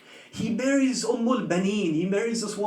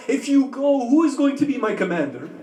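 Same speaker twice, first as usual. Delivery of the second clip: tearful pleading; 3 semitones higher, 4 dB louder than usual. Acted. Grieving martyrdom dialogue, voice rising.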